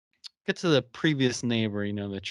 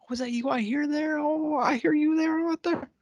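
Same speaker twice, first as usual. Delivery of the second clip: flirty character voice. Retold or imitated. Charles flirting with the bassoonist.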